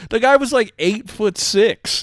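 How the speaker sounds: high, loud and stretched out in disbelief; eight-foot-six drawn out in awe; amazed. Real, not acted. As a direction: marvel at how huge he was. Marvelling at Fred Gwynn's height.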